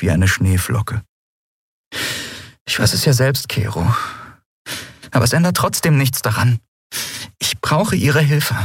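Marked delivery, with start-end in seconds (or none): 2.7-8.6 put-on raised, earnest young woman's voice; Endriel, pleading. A narrator's reading. Endriel asking Kero for help, raised pleading voice. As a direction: plead with him, voice lifted.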